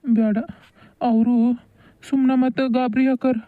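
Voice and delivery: lightly voiced older brother, tired and worried; weary brother. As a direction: play the anxious brother declining help. Brother talks to Shobha.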